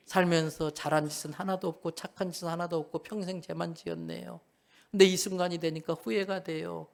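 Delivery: softly acted remorseful plea to Jesus; 참회하는 애원. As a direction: plead humbly, understated and subdued. Acting the robber's penitent plea. (조심스럽게 참회하며 애원하듯)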